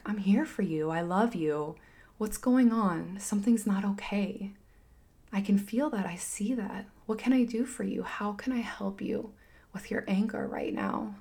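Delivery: put-on soft, gentle comforting of a child; tender reassurance. Mother softly comforting her angry son, tender and quiet. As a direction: talk him down softly with love. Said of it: "this is what I do with Steve".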